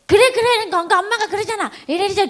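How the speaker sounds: high-pitched, hurried acted exasperation; impatient mother. Mother forcing empathy at a fussing child, high impatient rush. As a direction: placate the child with patience running out.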